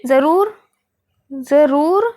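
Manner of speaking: ज़रूर with the रू stretched long; drawn-out long ru. Shown as a demonstration. Teacher stretching रू so kids hear the long vowel. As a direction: pull the रू in ज़रूर out slowly. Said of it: "रू खिंचाना".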